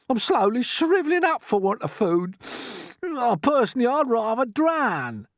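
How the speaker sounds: high, loud lament; despairing earthworm. Acted. Earthworm tells all they will die of starvation, melodramatic. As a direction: wallow loudly in doom, drawing out the end.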